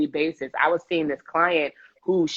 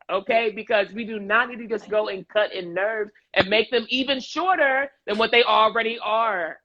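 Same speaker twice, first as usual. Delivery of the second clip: high-pitched, worked-up venting; excited rant; 4 semitones higher than usual. Real, not acted. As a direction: get carried away, voice lifted high. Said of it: "sorry, I'm getting excited".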